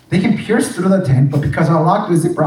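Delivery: ordinary talk, nothing marked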